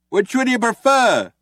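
loud, high, sarcastic; shouting back. A narrator's reading. Ford shouting back at the cops, sarcastic. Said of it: "shouted Ford".

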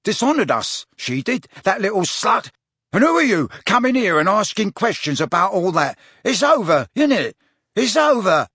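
put-on high, loud drunken rage; shouting. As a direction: yell it, spitting with fury. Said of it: "He brandished his knife and shouted".

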